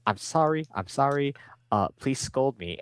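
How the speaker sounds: high-pitched mock begging; pleading apology. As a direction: blurt it out as a hammed-up plea. Acting a blurted, pleading apology.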